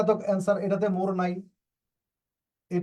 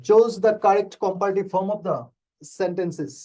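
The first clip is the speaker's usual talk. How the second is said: slow and deliberate, word by word; slow reading; 4 dB louder, much slower than usual. Shown as a demonstration. Teacher reading the exam question slowly to students. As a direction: read it out slowly for the class. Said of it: "teacher reads the question slowly".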